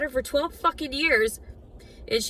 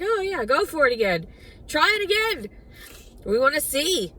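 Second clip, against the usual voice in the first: mock taunting voice of others, pitched up; mocking people; 4 semitones higher than usual. Mocking people who egged her on, sarcastic. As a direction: mimic the cruel onlookers lightly. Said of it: "everybody is like".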